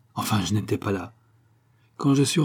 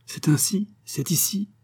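shocked whisper; 9 semitones higher than usual. A narrator's reading. Lady shocked at his garret.

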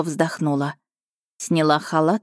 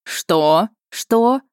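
two startled cries, the second higher; shocked cry; 5 semitones higher, 3 dB louder than usual. A narrator's reading. Two people hear of an engagement, crying out shocked. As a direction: cry out in disbelief, jumping up in pitch. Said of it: "хором выкрикнули мы".

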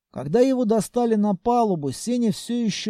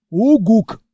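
loud high hoot; monster hoot; 3 semitones higher, 8 dB louder than usual. Acted. Senya the monster hooting loudly to get attention.

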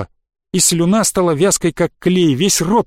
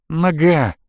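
strained single word of pain; pained creak. A narrator's reading. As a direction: creak it out, hurting. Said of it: "проскрипел он болезненно". (болезненно, сдавленно)

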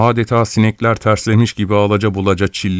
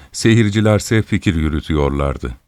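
ordinary delivery, nothing marked

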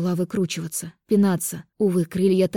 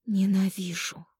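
slow, hissed, hateful whisper; hissing whisper; 3 dB quieter, slower than usual. A narrator's reading. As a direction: hiss it through the teeth. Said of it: "прошипела".

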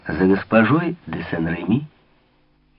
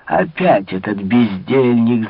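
shout; slower than usual. Acted. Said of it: "закричала старая дама".

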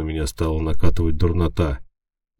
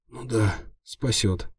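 groaning; 5 semitones higher, slower than usual. A narrator's reading. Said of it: "простонал я".

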